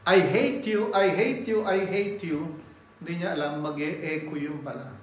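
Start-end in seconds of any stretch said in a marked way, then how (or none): 0.1-2.5 mock yell of a child, higher at first; lightly voiced child calling out in protest; angry child. Child calling out, unaware it will echo, mock angry yell. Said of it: "Katulad nung bata".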